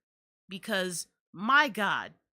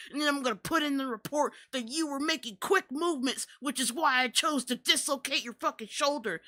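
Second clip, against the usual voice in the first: mocking the cop; 3 semitones higher than usual. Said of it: "this fat piece of shit was like".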